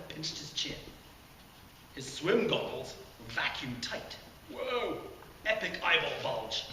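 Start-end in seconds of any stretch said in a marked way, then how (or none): 4.5-6.7 excited. Acted. Jared admires his goggles.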